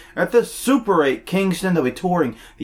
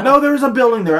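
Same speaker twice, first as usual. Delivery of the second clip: laughing; 6 semitones higher, 4 dB louder, faster than usual. Real, not acted. Laughing protest at teasing.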